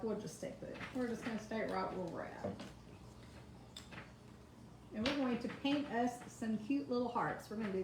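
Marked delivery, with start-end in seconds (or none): 0.0-2.5 quiet inner thought. Retold or imitated. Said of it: "and I was like".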